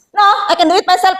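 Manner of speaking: a curt, cutting no; harsh refusal. Shown as a demonstration. Student refusing help so rudely the helper gets annoyed. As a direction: refuse so the helper feels snubbed. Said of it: "Wah, jengkel orang".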